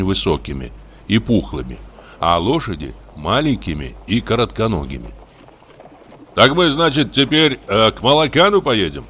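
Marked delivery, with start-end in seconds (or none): 6.3-9.0 raised, higher-pitched voice; talking loudly. A narrator's reading. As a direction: speak up to the group, lifted questioning tone. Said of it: "громко говорил Кузьмичев". (громкий разговор)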